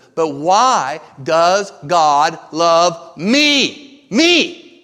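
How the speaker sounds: frustrated, very loud, very slow, rising voice. Retelling a frustrated question from a friend: imitating a frustrated raised voice. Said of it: "he kind of lifted his voice a little bit".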